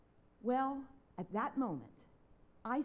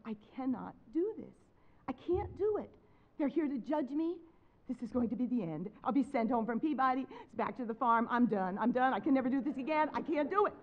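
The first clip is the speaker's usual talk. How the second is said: mock despair building louder; retold stage panic; 5 dB louder than usual. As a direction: spiral into panic, getting louder. Retold panic before recital.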